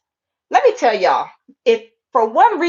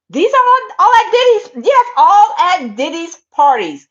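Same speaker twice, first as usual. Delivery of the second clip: higher and louder, hammering all; outraged emphasis; 4 semitones higher, 3 dB louder than usual. Real, not acted. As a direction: insist it all happened there. Outraged emphasis on a rapper's parties.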